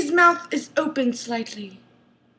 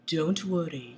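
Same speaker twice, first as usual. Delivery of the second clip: soft breathy reassurance; 8 semitones lower, 10 dB quieter than usual. A narrator's reading. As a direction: breathe it gently. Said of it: "he breathes".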